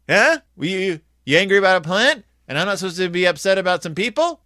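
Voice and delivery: high, loud disbelieving question; incredulous huh. Retold or imitated. God challenges Jonah, loud and incredulous. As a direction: scoff in disbelief.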